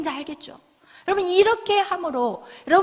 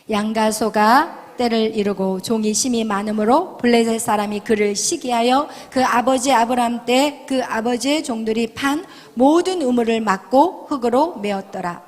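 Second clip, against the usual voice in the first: loud, lower-pitched Bible reading; scripture reading; 4 semitones lower, 7 dB louder than usual. Acted. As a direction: declaim the verse to the congregation. Reads scripture aloud. (힘주어 낮게 성경 봉독)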